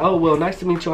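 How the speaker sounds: polite mom. Retold or imitated. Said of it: "So she was like".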